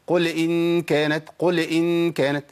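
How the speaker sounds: قل with the سكون on لام wobbled, slowly; shaken sukoon. Shown as a demonstration. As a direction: jiggle the still لام in قل. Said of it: "بيحرك الساكن، بيهزه".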